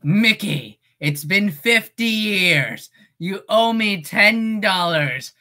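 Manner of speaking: a lightly voiced cartoon rabbit demanding his money; Oswald voice. Shown as a demonstration. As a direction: Oswald grumbling at Mickey, mild. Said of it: "Can you do Oswald?".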